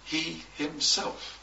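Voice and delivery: "He himself" slowed, each word stressed; emphatic "He himself". Shown as a demonstration. Preacher showing the writer's emphasis: slow, stressed "He himself". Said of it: "to emphasize the point".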